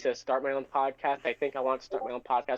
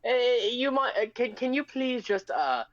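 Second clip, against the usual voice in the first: mock-polite British gent, pitched up; put-on British accent; 5 semitones higher than usual. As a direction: do a hammed-up English accent, politely asking. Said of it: "have you ever been to U K".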